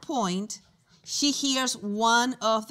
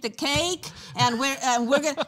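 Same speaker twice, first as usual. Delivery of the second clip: excited store owner; 3 semitones higher, 6 dB louder than usual. Retold or imitated. Store owner agreeing to throw the birthday party, excited. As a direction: gush with delight at the idea.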